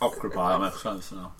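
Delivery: talking while chewing an apple; words round a bite of apple; mouth full. Real, not acted. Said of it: "He is eating an apple".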